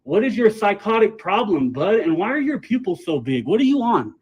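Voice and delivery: loud, accusing shouting; angry. Real, not acted. Accusing employee loudly.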